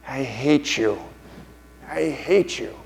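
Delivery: wounded put-on creature voice; Smeagol. Smeagol answering his cruel alter ego, wounded put-on voice. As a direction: protest as the tormented creature. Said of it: "And Smeagol says".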